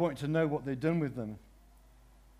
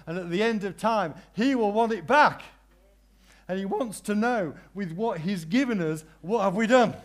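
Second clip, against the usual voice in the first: loud, high emphatic climax; preaching at full force; 5 semitones higher, 6 dB louder than usual. Real, not acted. Preacher challenging the congregation, loud and high. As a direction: drive the question home.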